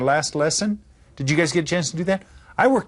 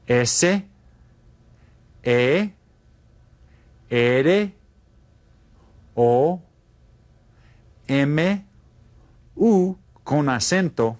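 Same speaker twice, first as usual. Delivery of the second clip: dictation; 2 semitones higher, much slower than usual. Shown as a demonstration. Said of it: "Did you write down these?".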